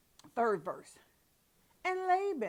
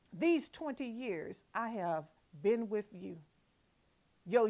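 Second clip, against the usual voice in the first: indignant Jacob; 4 dB louder than usual. Acted. Jacob protesting to Laban, indignant and louder. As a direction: plead your innocence, voice rising.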